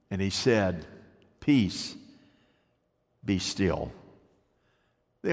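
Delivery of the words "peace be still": low, soft and slow, calming the waves; hushed command. Acted. Preacher voicing Jesus to the wind, hushed and low. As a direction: speak peace over the storm gently.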